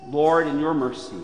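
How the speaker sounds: usual speaking voice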